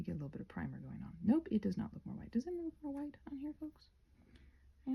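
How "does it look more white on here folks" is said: whisper. Real, not acted. Painting vlog aside to viewers.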